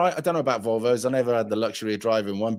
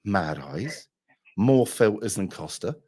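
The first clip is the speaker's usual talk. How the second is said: dismissive muttering; 3 semitones lower, slower than usual. Retold or imitated. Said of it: "I was looking through there today at going".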